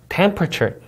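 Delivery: slow "temperature" with stress on the first syllable; stress demo. Shown as a demonstration. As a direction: hit TEM in "temperature". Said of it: "강세 주의에서 한번 읽어볼게요". ("temperature" 첫음절 강세)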